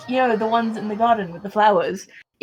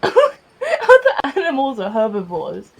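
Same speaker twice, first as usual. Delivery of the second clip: laughing; 3 semitones higher, 4 dB louder, slower than usual. Real, not acted. Laughing while explaining.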